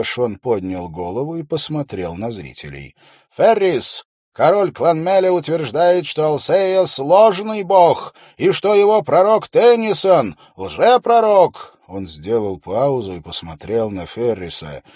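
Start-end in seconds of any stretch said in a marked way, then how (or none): 3.4-11.8 loud, high proclamation to the crowd; confident royal steward. A narrator's reading. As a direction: read the decree out with confidence. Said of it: "но он звучал достаточно уверенно".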